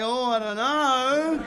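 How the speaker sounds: slow, drawn-out dithering; mock indecision. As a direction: stretch it out, weighing it up. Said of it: "We're like".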